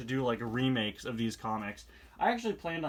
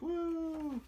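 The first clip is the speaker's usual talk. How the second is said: excited woo; 5 dB quieter than usual. Real, not acted. Excited cheer while reading.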